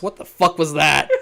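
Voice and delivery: a duck's baffled question, laughing; half-laughing mock bewilderment; laughing disbelief. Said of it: "walks out the theater and goes".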